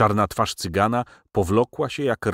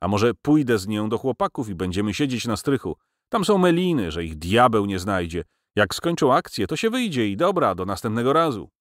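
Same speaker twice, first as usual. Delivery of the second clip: slightly trembling, breathless; 5 semitones higher than usual. Acted. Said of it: "Głos mu nieco drgał, jakby w zadyszce".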